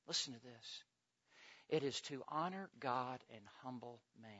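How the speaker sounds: low, soft, measured sermon voice; hushed preaching. Real, not acted. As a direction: drop right down and let each phrase settle. Hushed, grave preaching passage.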